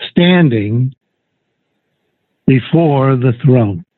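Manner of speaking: slow, measured reading with long pauses; solemnly paced Bible reading; scripture reading. Acted. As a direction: read the verse out slowly, phrase by phrase. Reads scripture aloud.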